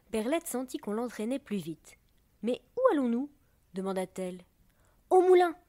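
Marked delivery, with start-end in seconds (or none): 2.4-3.3 high, louder, puzzled query; startled question. A narrator's reading. Perlette swept faster downstream, asking in alarm. 5.1-5.6 very loud, high cheer; joyful shout. A narrator's reading. Other drops cheering their way downstream, joyful shout. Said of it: "crièrent les autres joyeusement".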